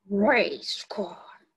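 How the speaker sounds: robot puppet voice. Acted. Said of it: "he talks a little funny".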